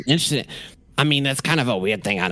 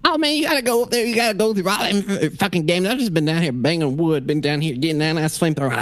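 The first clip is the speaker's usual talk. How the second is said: manic firefighter; 4 semitones higher than usual. Acted. GM answers as Abel.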